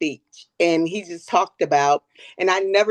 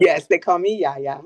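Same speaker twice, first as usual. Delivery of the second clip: laughing. Real, not acted. Laughing about grandkids' nickname.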